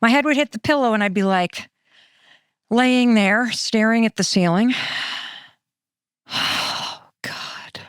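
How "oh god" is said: mock despair. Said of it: "This is what my thoughts used to sound like".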